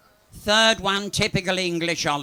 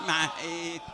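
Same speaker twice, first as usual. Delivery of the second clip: shouted punchline; 2 semitones higher than usual. Retold or imitated.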